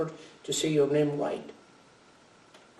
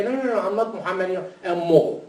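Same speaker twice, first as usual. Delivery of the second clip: fast, raised mocking voice of a son; 4 semitones higher, 4 dB louder, faster than usual. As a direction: toss off the name like a teen. Son rejecting his Muslim name.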